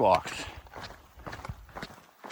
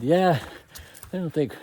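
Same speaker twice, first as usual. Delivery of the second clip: mock holler, pitched up; re-enacted calling back; 8 semitones higher than usual. Hiker joking back to the guy above, imitated raised call. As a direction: lightly act out a reply called uphill. Acts out reply called up switchbacks.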